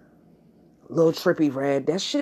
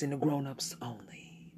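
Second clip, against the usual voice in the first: whisper; 5 semitones lower, 11 dB quieter than usual. Acted. Late-night adults-only intro.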